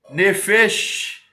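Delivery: "nefesh" with a long final sh; "nefesh" pronounced with deliberate care; careful Hebrew pronunciation. Shown as a demonstration. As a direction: demonstrate "nefesh" as a Hebrew word, holding the hushing ending. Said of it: "é a entonação da palavra".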